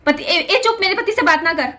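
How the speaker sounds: mother-in-law hushing her, half-acted; retold scolding. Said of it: "ये, ये line थी".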